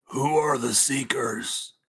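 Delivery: slow, high-pitched whisper. In character, leaning close to ask another character something: whispering. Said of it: "whispers in her ear".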